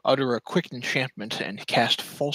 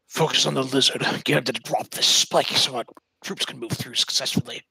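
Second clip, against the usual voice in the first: lightly raised commanding call; calling out orders; 2 semitones higher than usual. Acted. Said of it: "will call out".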